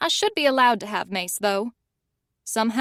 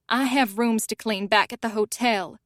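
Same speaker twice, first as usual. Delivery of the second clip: sniffy. Acted. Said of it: "she sniffs".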